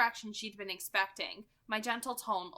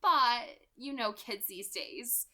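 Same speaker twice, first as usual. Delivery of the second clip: 1 light, wry Rosalie; 3 semitones higher, 5 dB louder, slower than usual. Acted. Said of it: "hint of levity".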